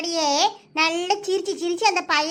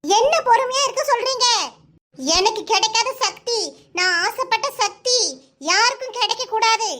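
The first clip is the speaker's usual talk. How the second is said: high frantic rant; 4 semitones higher than usual. Acted. Daughter ranting against calm advice.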